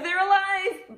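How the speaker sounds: high, loud mock-thrilled squeal; excited exclamation. Teacher revealing the bees to children, playful excited squeal. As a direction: burst out high and loud at the climax.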